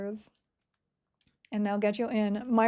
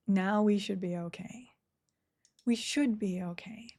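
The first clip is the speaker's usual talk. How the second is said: unvoiced whisper to herself. Real, not acted. Streamer whispering to herself while sorting gear, whisper. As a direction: breathe the words, no voice.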